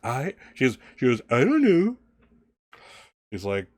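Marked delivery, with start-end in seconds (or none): 1.3-2.0 high, loud mimicry; mocking. Stepmother parroting Alice's excuse, mockingly. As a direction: throw it back in a mocking sing-up. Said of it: "very mockingly".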